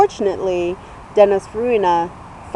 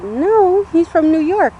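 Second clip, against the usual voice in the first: insistent retort; 8 semitones higher, 4 dB louder than usual. Retold or imitated. Arguing with mom about accent.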